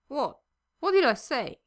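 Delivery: puzzled, rising question; confused. A narrator's reading. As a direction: ask in genuine confusion. Confused tipsy Victor asks.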